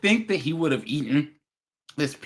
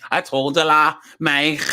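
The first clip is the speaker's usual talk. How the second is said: put-on quick sample of a Liverpool accent; mock Scouse accent with a throaty ending. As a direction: imitate a Scouser. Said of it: "the Scouser accent".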